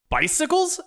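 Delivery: high surprised rise; baffled disbelieving question. Acted. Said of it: "asks Steve".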